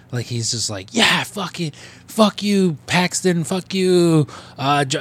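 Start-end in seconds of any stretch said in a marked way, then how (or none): 0.9-4.3 high-pitched mock yell at the players; imitated screaming. Barfly cursing players on the television, mock screaming. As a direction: imitate a ranting fan, pitched up. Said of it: "he's just screaming at the television".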